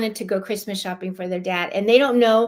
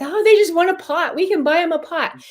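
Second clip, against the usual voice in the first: heartbroken; 7 semitones higher, 4 dB louder than usual. Retold or imitated. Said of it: "I was like".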